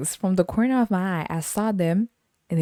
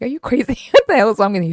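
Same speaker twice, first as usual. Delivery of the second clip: mock outraged yell; 6 semitones higher, 7 dB louder, faster than usual. Retold outburst at friend.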